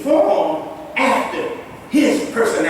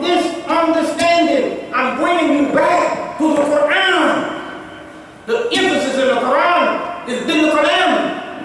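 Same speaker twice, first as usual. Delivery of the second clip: emphatic preaching; 4 semitones higher than usual. Real, not acted. Preacher calls brothers back to the Quran, emphatic raised preaching. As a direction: preach the point home with mounting insistence. Preacher drives home his main point.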